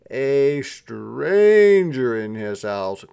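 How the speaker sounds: a sleepy dog rumbling at an intruder; a hint of a menacing dog; growling dog. A narrator's reading.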